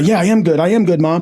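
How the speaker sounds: exaggerated, over-the-top. Retelling own past words to Mom, in an over-the-top way. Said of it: "that sounded like a little extra".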